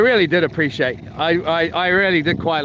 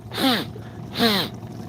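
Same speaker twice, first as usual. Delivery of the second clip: a sharp sniff up the nose; imitated sniff; 5 semitones higher, 6 dB quieter than usual. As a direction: sniff like after a line of powder. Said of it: "and they're like".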